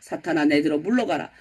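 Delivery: low, stern mock rebuke; restrained anger, pitched well down; angry rebuke. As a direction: send him away sternly, low-voiced. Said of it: "갑자기 예수님 화를 내시면서".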